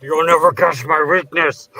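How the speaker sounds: slow, loud, hammed-up declaration; mock dramatic shout. Friend joking about the film, hammed-up loud declaration. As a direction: belt it out slowly and theatrically.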